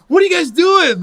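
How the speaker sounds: loud high disbelieving yell; baffled shout. Retold or imitated. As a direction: shout it in confusion. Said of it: "I was like".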